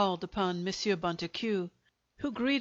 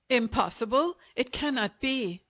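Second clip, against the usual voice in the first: shocked cry; 3 semitones higher than usual. Acted. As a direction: cry out in disbelief. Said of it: "cried Monsieur Pantin".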